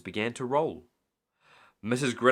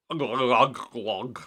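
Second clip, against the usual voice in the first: gurgling glug; 3 dB louder, much slower than usual. A narrator's reading. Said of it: "glugged Mister Grinling".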